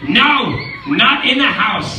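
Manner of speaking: high, loud fussy protest; alarmed fish voice. Acted. Fish in the pot scolding the cat, alarmed. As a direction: cry out against the mess. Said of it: "said the fish in the pot".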